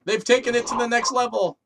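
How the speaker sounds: high dramatic voice about demons; mock possessed announcement. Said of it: "He's like".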